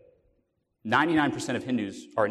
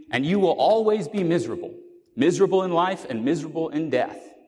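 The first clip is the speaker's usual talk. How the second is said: raised, higher preaching voice, pressing hard; pulpit warning; 5 semitones higher, 4 dB louder than usual. Retold or imitated. Preacher calls out the miserable young man in the gallery, raised and pressing. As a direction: hammer it home from the pulpit.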